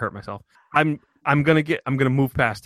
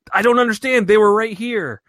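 high, loud bewildered plea; retold Richard Dreyfuss; 9 semitones higher, 5 dB louder than usual. Husband at the empty cliff, pleading in a high loud voice. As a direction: play the baffled husband at the cliff. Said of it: "he drags her out there and says".

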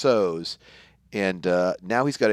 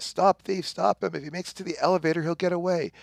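higher, urgent, fast shout-ish call; mild mock police holler; 8 semitones higher than usual. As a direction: yell after the thief while running. Cop calling out chase.

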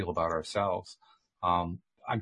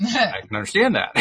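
laughing while talking, higher and louder; real amused laughter; 9 semitones higher, 7 dB louder than usual. Real, not acted. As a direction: let the laugh lift the words. Laughs at hotel guests' wish.

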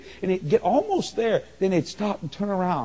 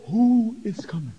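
breathy whispered question; hushed whisper among the crowd; 3 semitones higher than usual. Retold or imitated. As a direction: whisper it in awe. Whispering crowd, asking who comes.

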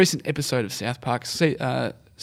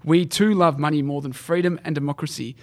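north korean newsreader. Retold or imitated. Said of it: "went like this".

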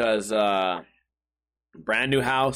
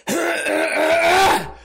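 strained throat clear; 14 semitones higher, 6 dB louder than usual. Real, not acted. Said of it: "my voice is all fucked up".

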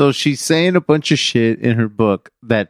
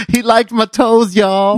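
laughing shout; 9 semitones higher, slower than usual. Real, not acted. Laughing joke to the audience.

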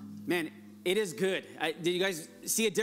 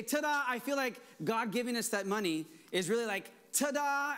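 flourishing ta-da; 5 semitones higher than usual. Acted. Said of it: "They say".

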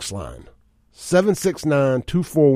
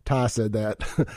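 slow and softer, leaning on Ty; deliberate clarifying repeat; slow, pointed repeat; 3 semitones lower, 6 dB quieter, much slower than usual. Shown as a demonstration. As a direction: set the record straight, word by word. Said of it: "not Clay".

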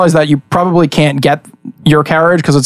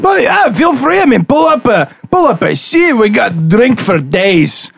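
lightly voiced friendly host; 3 semitones higher than usual. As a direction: chattily invite a traveler to sit and drink. Game master voices host offering drink.

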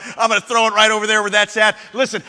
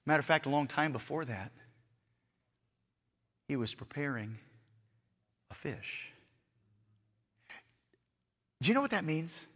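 hushed sermon aside; 11 semitones lower, 18 dB quieter than usual. Acted. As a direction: lean in and hush the congregation. Hushed preaching drop.

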